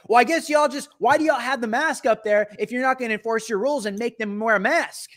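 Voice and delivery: mock indignant yelling; retold yelling. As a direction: complain loudly at the staff. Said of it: "then she starts yelling at the workers".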